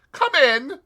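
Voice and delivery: loud high call through a door; impatient call. A narrator's reading. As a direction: shout them in. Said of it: "An impatient voice cried".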